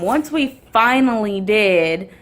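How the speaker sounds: "finally" drawn out slowly, with weight; stress on finally. Real, not acted. Driver reaching the bathroom at last, "finally" slow and emphatic. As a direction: stretch "finally" to show the long wait. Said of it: "and I say finally because".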